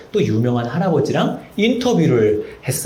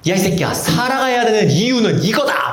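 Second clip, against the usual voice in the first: mock parent's shout; 7 semitones higher than usual. Parent shouting answer at son.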